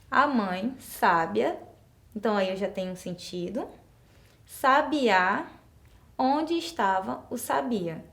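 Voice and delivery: sábia then sabiá, stress moved wrongly; slow demo of a wrong option; slow wrong reading. Shown as a demonstration. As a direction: read slowly to show the wrong stress. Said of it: "já na segunda palavra, eu perdi o sentido".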